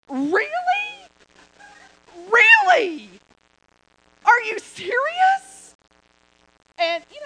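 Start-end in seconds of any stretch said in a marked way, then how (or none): 0.1-5.7 loud, high, slow indignant disbelief; exasperated outburst. Retold or imitated. Runner snapping at her cheering husband, loud indignation. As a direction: blow up at him in disbelief. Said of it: "And I said".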